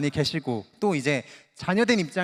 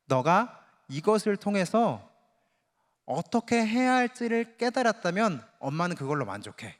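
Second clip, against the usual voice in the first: gentle mom; 2 semitones higher than usual. Retold or imitated. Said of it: "미국 엄마는요".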